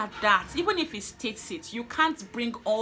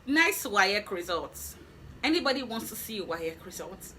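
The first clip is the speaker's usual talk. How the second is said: mock sarcastic remark. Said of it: "the gentleman said".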